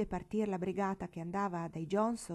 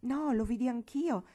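sulky exclamation; 4 semitones higher, 4 dB louder than usual. Acted. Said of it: "esclamò Teresa con aria un po' imbronciata".

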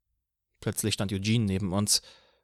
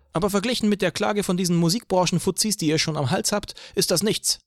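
higher, wry officer over beer; police officer voice; 8 semitones higher than usual. A narrator's reading. Officer teases Eugene about the music lawsuit, higher wry voice. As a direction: tease him like a friendly cop.

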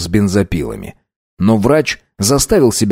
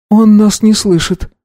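put-on higher, louder young woman; higher girl's voice; 12 semitones higher, 3 dB louder than usual. A narrator's reading. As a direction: voice Anna, a frightened girl. Girl voiced in story.

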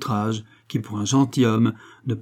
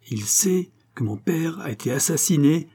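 higher-pitched accusation at normal volume; strident; 6 semitones higher than usual. A narrator's reading. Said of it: "d'une voix stridente". (voix stridente)

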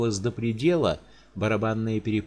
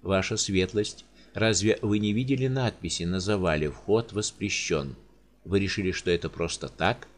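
sorrowful giant; 2 semitones lower than usual. Acted. Giant pleads with the countess over dead servants.

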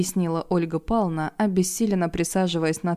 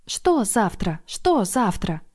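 excited; 4 semitones higher, much slower than usual. Acted. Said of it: "возбуждённо запрыгала".

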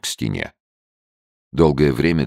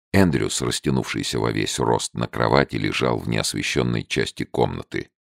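usual speaking voice

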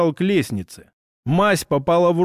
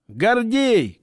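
calling out; 5 semitones higher than usual. Acted. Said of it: "крикнул он".

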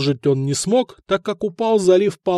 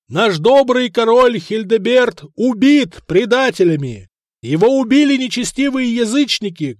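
public proclamation; 7 semitones higher, 3 dB louder than usual. A narrator's reading. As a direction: proclaim it to the whole harbour. Proclaiming to a port crowd.

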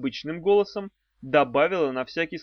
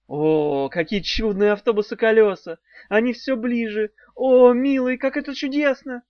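louder gushing mock-delight; mock passion; 7 semitones higher, 5 dB louder than usual. A narrator's reading. Daf taunting the worm about the bus. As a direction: sound thrilled at the bus.

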